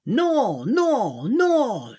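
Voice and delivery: high, loud panicked no; shouted no. Acted. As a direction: wail it like frantic waiters. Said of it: "shouted the servers".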